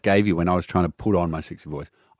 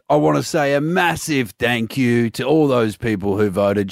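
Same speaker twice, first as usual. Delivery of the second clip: Hemsworth voice. Retold or imitated. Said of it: "your Hemsworth voice".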